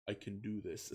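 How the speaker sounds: a hushed, calm vow of confidence; calm and quiet. Acted. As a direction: say it quietly, fully composed. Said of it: "with calm silence".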